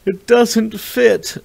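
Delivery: put-on very high, slow yelp of an old woman. A narrator's reading. Stuck old woman yelping to the driver. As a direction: squeal it in a panic, drawn out. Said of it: "the woman yelped".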